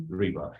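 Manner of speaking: "repo" said REE-po; English pronunciation. Shown as a demonstration. Teacher gives short form after full, "repo" said REE-po. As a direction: stress a long ee in "repo". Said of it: "в английском языке она читается как".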